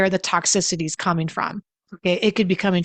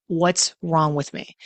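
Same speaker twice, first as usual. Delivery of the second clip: quietly hurt; 2 semitones lower, slower than usual. Retold or imitated. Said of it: "I would go into my bedroom and go".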